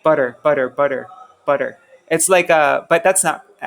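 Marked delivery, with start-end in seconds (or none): 0.0-1.8 "butter" repeated low with slurred double T; American flapped butter. Shown as a demonstration. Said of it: "an American person says butter".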